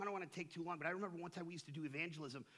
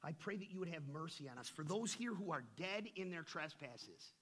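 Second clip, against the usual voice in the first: fervent prayer. Acted. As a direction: pray over the congregation. Opening prayer before the study.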